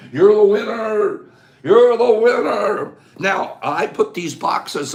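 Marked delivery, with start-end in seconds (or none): 0.1-2.9 slow, loud winner call; excited announcement. Real, not acted. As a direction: proclaim the winner slowly. Announcing chat contest winner.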